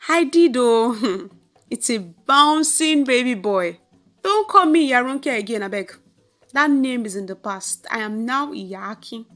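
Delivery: beam with pride through laughter; proud laughing. Acted. New mother boasting to her neighbour, proud and laughing. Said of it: "She laughed proudly".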